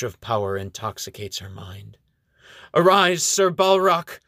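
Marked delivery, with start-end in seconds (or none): 2.7-4.2 high, loud, slow command; shouting. Acted. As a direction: shout him up from the grave. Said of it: "she shouts".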